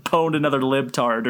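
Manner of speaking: smug, laughing delivery; Ben Shapiro impression. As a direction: gloat it through laughter. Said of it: "puts on sunglasses and go".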